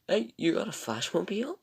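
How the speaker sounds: high, loud, squeaky-pitched impression; excited question. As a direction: imitate a thrilled fan asking. Imitating Chester's surprised question.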